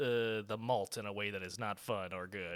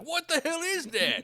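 baffled Jeremy Renner; 6 dB louder than usual. Retold or imitated. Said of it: "and he's like".

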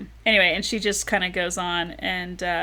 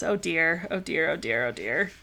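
dismayed; 2 semitones lower, 4 dB quieter than usual. Acted. Dismayed man alone after kiss.

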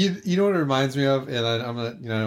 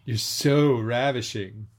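sultry narrator; slower than usual. Retold or imitated. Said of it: "the narration before it is what's really bad".

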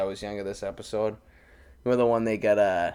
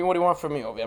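Fat Tony impression; 4 semitones higher, much faster than usual. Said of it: "he's doing Fat Tony".

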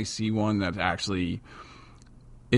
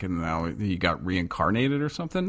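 mock disbelief; 2 semitones higher than usual. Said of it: "I was like".

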